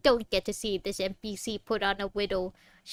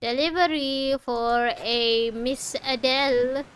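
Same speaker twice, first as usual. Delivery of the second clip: delivery man voice; 3 semitones higher, 5 dB louder, slower than usual. Pretend. Announcing delivery in a role.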